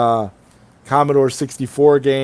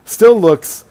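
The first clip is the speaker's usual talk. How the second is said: glitchy robotic stream audio; choppy digital robot sound; 4 semitones higher, 3 dB louder than usual. Real, not acted. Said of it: "Uh-oh, you sound like a robot".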